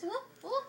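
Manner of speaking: high-pitched bird whoops; imitating Cookie's whooping. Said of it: "making Cookie go like this".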